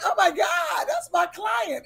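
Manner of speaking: high shocked cry; shocked shout. Retold or imitated. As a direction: yell it out in disbelief. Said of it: "the mother was like".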